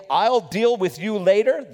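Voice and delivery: lightly imitated dad warning; a hint of fatherly threat; stern dad tone. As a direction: say it like a dad promising punishment. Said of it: "that tone when dad would say".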